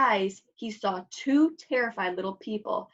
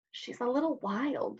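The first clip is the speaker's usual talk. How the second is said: whispered; 3 semitones higher, 7 dB quieter than usual. A narrator's reading. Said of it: "the queen whispered to the king".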